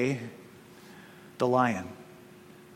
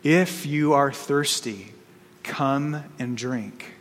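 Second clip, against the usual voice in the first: lightly voiced lion, slow and hushed; deep lion voice; slower than usual. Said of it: "It was deeper, wilder, and stronger".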